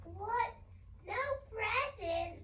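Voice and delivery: high, drawn-out mock dismay; acted alarm. Shown as a demonstration. Child showing what alarmed means, mock alarm. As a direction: act out a startled question, stretched at the end.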